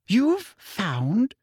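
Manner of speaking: shrill. A narrator's reading. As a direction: Umbridge shocked and shrill. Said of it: "said Umbridge shrilly".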